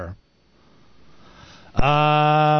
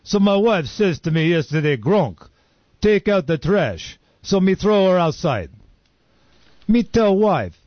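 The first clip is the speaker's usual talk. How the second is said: lightly voiced caveman comic, broken grammar; slower than usual. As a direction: play a dim caveman telling jokes to the cave crowd. Caveman comic stand-up act.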